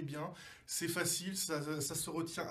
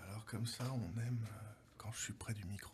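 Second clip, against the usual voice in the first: soft, close-mic ASMR murmur; mock ASMR close to the mic; 8 semitones lower, 9 dB quieter than usual. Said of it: "Ne fais pas peur aux nouveaux venus".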